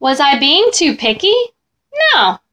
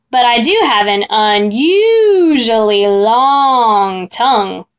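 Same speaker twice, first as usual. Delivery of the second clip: 1 slow sly monster; slower than usual. Acted. Monster bragging about his tongue.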